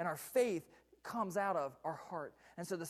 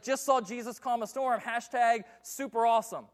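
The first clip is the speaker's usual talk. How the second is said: mock amazement; 6 semitones higher, 12 dB louder than usual. Disciples gushing about the miracle, hammed-up amazement. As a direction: gush like a thrilled fan. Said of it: "They're updating their Facebook status".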